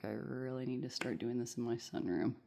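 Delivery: slightly wheezy breath. Real, not acted. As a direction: talk through a wheezy chest. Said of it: "I'm wheezing".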